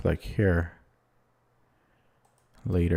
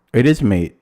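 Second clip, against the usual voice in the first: excited; 6 dB louder than usual. Real, not acted. Spots checkmate.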